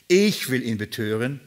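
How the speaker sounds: „Ich“ rising and held; stress on ich. Shown as a demonstration. Preacher reading the verse with the congregation, stressing „Ich“. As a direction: read along, leaning on „Ich“. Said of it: "Die Betonung ist auf ich".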